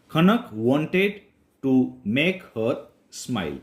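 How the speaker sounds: slow, careful English read-aloud; slow story reading. Shown as a demonstration. Teacher reading a story line to Gujarati learners, slow and clear.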